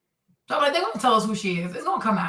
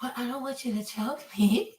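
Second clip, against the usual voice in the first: put-on baby voice; 6 dB quieter than usual. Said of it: "with that weird baby voice".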